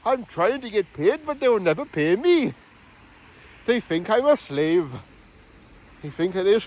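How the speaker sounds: put-on Geordie accent. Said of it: "even I'm from Newcastle".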